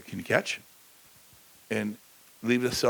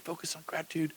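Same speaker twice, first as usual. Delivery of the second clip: soft repeated mantra; 3 semitones higher, 9 dB quieter, faster than usual. Retold or imitated. Speaker echoes someone's mantra to the crowd, softly. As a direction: hush it like a mantra. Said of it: "Tony's always said".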